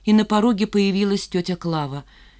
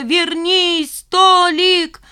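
high, loud pleading call; 11 semitones higher, 7 dB louder, much slower than usual. A narrator's reading. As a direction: call him back. Mother calls fleeing son.

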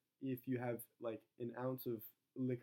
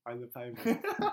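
slowly; slower than usual. Shown as a demonstration. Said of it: "Say it slowly".

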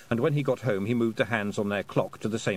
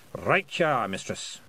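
lightly Scottish pixie voice; cheerful little Scots pixie. Acted. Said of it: "said the pixie".

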